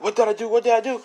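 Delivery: high, frantic repeated question; acted morning-after panic; panicked. Voicing his panic on waking.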